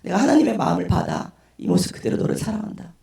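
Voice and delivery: lightly voiced tender reassurance; mildly solemn, comforting pastor; gentle pastor. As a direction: say it as if holding someone, understated. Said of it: "저를 이렇게 안아주시면서".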